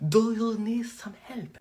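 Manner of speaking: slow, exaggerated Arabic accent; heavier mock Arabic accent. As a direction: lay the Arabic accent on thicker, slowly. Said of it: "let me just make my accent deeper".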